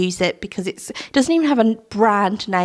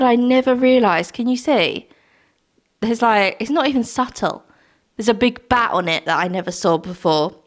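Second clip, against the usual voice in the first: usual speaking voice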